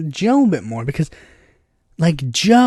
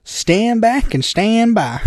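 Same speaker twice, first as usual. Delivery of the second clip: Trump; 4 semitones higher, much slower than usual. Retold or imitated. Mocking a president addressing his followers, Southern drawl. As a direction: imitate a drawled command. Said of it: "Then Trump was like".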